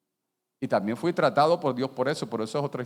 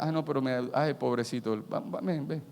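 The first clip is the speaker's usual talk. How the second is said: mock pity; 5 dB quieter than usual. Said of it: "No es que tú vas para".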